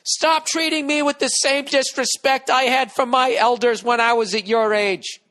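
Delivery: put-on high, loud, slow old-man croak; honest crabby old man voice. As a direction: scold the young like a crabby elder. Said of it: "Honest, crabby old man".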